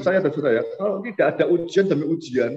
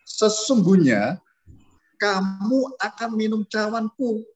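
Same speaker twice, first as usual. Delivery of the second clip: slow voice of Jesus; 5 semitones higher, much slower than usual. Acted. Preacher voices Jesus's words.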